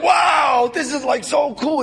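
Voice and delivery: mock starstruck newcomer; starstruck wow. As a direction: gush like a kid on a film set. Starstruck on a movie set.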